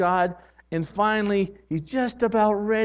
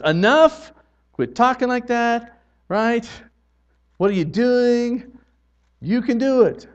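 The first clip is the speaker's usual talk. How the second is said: God's reprimand; 6 semitones higher than usual. Retold or imitated. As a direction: scold like a father who has had enough. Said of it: "where he finally says".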